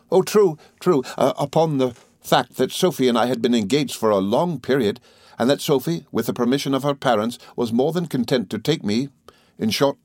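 lightly voiced good-natured friend; a hint of an earnest, rambling chatterer; Traddles, earnestly listing.

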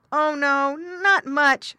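high, loud piglet voice; little pig. A narrator's reading. Little pig answers the dog.

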